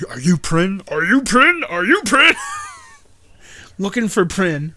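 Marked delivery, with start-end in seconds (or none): 0.1-2.3 building urgency. Retold or imitated. Hero hunting passengers for Prin, building to loud urgency. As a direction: press harder with every ask. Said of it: "and he goes again".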